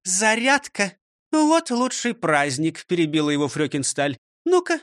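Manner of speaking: high, brisk commands and counts; drill teacher counting. Acted. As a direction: call out the drill. Teacher leads exercise drill. (командует зарядкой)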